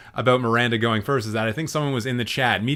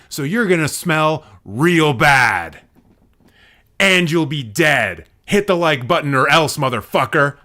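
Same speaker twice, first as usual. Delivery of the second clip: mock threat; 5 dB louder than usual. Host playfully threatening viewers to hit like, mock menace. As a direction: threaten them in hammed-up anger, hitting it hard.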